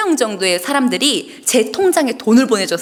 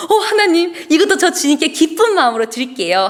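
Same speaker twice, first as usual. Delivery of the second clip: bright, high burst of delight with a laugh; joyful prayer; 6 semitones higher than usual. Retold or imitated. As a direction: thank God with a laughing, excited lift. Joyful retold prayer to God. (웃음 섞인 기쁜 기도)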